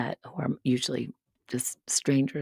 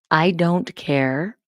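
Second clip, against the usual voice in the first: slow plain repeat; 2 semitones higher, 4 dB louder, much slower than usual. Shown as a demonstration. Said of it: "repeats without swearing".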